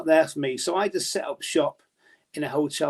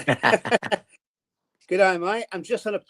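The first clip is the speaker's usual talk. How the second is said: higher-pitched mock Australian accent; playful Australian accent on the phone; 5 semitones higher, much slower than usual. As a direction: slip into a casual Aussie accent. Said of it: "I'm doing an Australian accent".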